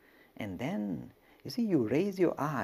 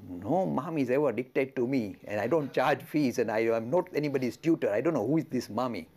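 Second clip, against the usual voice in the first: louder, offended monk refusing to be anyone's tutor; indignant; 6 dB louder than usual. Retold or imitated. Totapuri loudly refusing to be a mommy's hired tutor. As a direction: bristle and push back hard.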